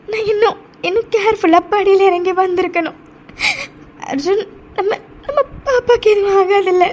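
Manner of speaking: guilt-ridden, tearful pleading; crying. Acted. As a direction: beg for reassurance while crying. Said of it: "நீ அழாதடி". (குற்ற உணர்ச்சியில் அழுகை)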